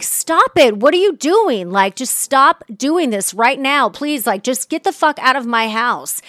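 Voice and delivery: angry yelling. Retold or imitated. Telling ex to leave fridge.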